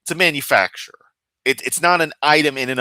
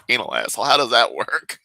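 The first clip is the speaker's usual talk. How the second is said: being tickled. Real, not acted. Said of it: "that's tickling me so much".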